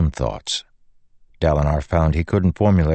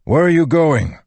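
loud, high-pitched challenge; raised voice, demanding an answer; 11 semitones higher, 5 dB louder than usual. A narrator's reading. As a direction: call out sharply to stop them. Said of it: "he demanded".

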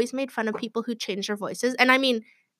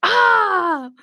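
put-on high, loud child calling out in a store; loud kid yell; 12 semitones higher, 8 dB louder, much slower than usual. Child yelling at mom in a store, loud and high. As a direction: shout it to embarrass mom. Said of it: "I was like".

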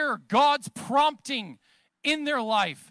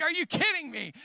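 higher, incredulous dad voice; mock exasperation; 4 semitones higher than usual. Dad to kids pretending not to hear, mock exasperation. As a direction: retell a parent's disbelief.

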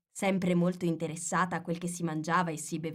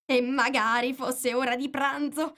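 plain reading voice

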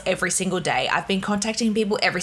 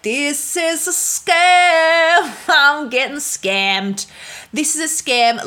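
slow, high, loud wail of panic; panicked; 7 semitones higher, 4 dB louder, much slower than usual. Retold or imitated. To the guard demanding thirty euros, panicked. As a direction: drag out the words, close to tears. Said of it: "And I was like".

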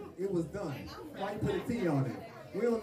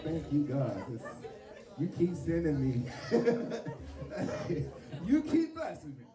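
laughing mock prayer. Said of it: "I was like".

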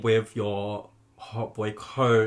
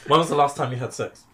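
laughing; 4 dB louder, faster than usual. Real, not acted. Asked while still laughing.

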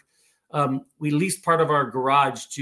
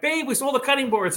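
retold excited scream; 9 semitones higher than usual. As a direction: imitate excitedly calling up to your wife. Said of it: "I scream upstairs".

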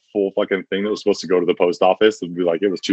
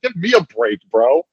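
higher, sarcastic echo of his words; mocking echo; 6 semitones higher than usual. Coworker mocking the boss's plea, in a sarcastic echo. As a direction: throw his line back at him, mocking. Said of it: "I'm like".

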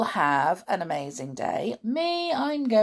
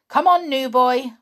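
louder, bossy command; bossy order; 8 semitones higher, 10 dB louder than usual. A narrator's reading. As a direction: order him about. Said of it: "ordered Amber".

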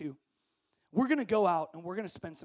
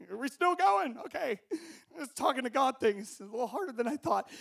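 bored student; 8 semitones higher, 6 dB louder than usual. Pretend. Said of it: "you know, like".

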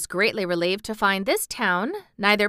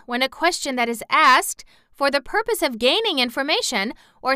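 long-winded woman; 5 semitones higher, 4 dB louder than usual. Acted.

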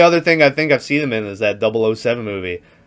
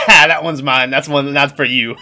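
laughing through an imitated taunt; gleeful mock taunt with chuckles; retold teasing laugh; 2 semitones higher, 3 dB louder than usual. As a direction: act out a prankster cracking up at the joke. Retelling a film prank, laughing.

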